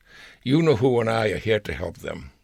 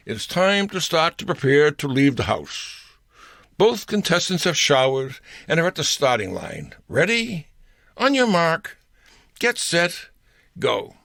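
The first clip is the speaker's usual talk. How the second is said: louder, higher mock announcer, building to the start; radio announcer; 5 semitones higher, 3 dB louder than usual. Mock radio announcer starting the getting-ready race, louder and higher. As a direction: call it like a race countdown. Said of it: "The announcer would begin".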